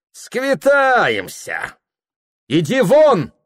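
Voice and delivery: high, very slow drawn-out cry; mocking threat. Anfisa driving the cook out, loud and drawn. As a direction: stretch the threat out, then snap it.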